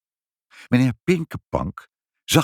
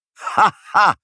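high, loud "ha, ha"; called-out mocking laugh; 12 semitones higher, 5 dB louder than usual. A narrator's reading. Pinkepank scoffing at mother's demand, high mocking laugh. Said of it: "riep meneer Pinkepank".

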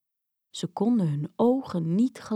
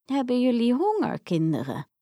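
friendly; 3 semitones higher than usual. Acted. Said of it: "vroeg ze vriendelijk".

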